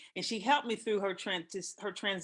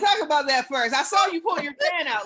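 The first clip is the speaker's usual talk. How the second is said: teasing laugh; 8 semitones higher, 9 dB louder than usual. Real, not acted. Teasing a friend.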